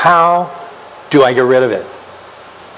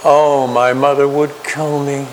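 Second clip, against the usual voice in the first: mock dismay; 2 semitones higher than usual. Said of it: "and you go".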